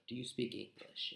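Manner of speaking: softly asked, just above a murmur; quiet. Shown as a demonstration. Polite tourist quietly asking the cashier, softly. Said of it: "You just can say quietly".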